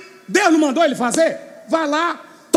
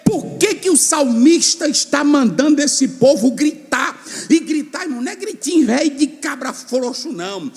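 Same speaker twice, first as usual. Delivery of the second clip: ordinary delivery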